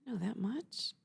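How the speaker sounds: unvoiced, hushed disbelief; whispered surprise at her own knowledge; amazed whisper. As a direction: breathe it out in wonder.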